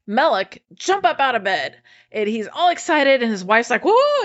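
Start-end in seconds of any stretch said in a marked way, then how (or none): 3.8-4.2 high-pitched startled whoa; freaking out. Retold or imitated. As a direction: mimic a wife freaking out, pitch leaping up. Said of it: "she's freaking out".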